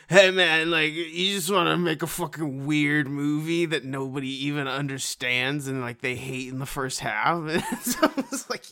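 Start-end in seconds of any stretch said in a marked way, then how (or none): 0.1-7.4 stoner voice. Retold or imitated. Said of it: "my stoner voice".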